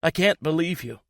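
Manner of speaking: high, stunned and furious; hurt girlfriend lashing out; angry disbelief. A narrator's reading. Girlfriend confronting her boyfriend, high angry disbelief.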